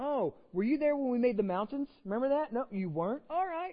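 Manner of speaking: high, heavy, knowing, dripping sarcasm. Explaining the Book of Job, the speaker acts out God's words: retelling God's sarcasm. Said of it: "God is being very sarcastic with these guys".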